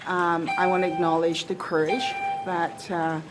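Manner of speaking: winded from climbing stairs; breathy, catching breath between phrases. Real, not acted. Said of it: "I'm just catching my breath walking up the stairs".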